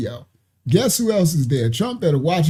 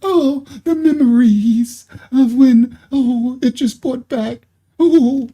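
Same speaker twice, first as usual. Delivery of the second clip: mock weepy woman; 4 semitones higher, slower than usual. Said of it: "That's what she's doing".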